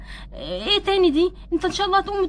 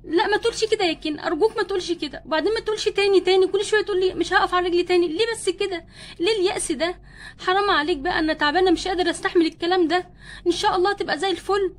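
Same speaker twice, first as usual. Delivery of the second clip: distressed pleading; 2 semitones higher than usual. Acted. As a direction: beg him to stop despairing. Wife pleads against husband's despair. (رجاء بنبرة زعلانة وعالية)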